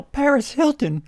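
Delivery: mock high emphasis. Mocking gothic girl name.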